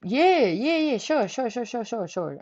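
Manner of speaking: flustered yeses, fading as they go; shocked agreement. Retold or imitated. Agreeing to the hug while shocked, flustered. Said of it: "I'm over here shocked as a motherfucker".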